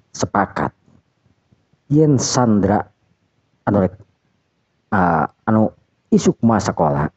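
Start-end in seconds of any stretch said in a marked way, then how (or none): none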